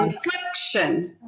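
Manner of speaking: INFLECTION with the accent on FLEC; stress on second syllable. Shown as a demonstration. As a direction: make the middle of INFLECTION stand out. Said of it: "the second syllable gets the accent".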